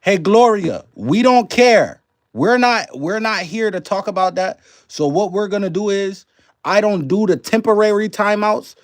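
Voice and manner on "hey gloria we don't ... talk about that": firm scolding. Real, not acted. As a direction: shut down a troublemaker in the chat, loud and firm. Scolding a disruptive chatter.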